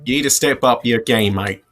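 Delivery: teasing Australian "mate"; lightly put-on Australian accent, ribbing a friend; mock Australian accent. Teasing the player's poor Australian accent.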